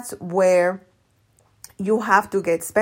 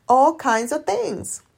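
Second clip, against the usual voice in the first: higher and slow, drawn out; slow emphatic repeat; 6 semitones higher, slower than usual. Shown as a demonstration. Coach repeating her point slowly. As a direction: lean on each word slowly.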